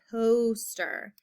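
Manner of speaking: "Poster" with the first vowel held; long O demonstration. Shown as a demonstration. Teacher has pupils listen for the vowel, long O lengthened. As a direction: lean into the O of "Poster". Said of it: "You hear that long O sound".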